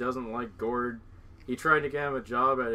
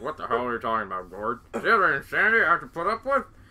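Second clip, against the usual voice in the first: loud, swooping outburst with big pitch swings; 5 dB louder than usual. Retelling a movie's family therapy scene: imitating Gord's dad. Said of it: "And then he's like".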